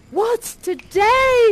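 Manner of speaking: eager shout from the window; yelling down. Acted. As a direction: shout down to the street. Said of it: "he yells down".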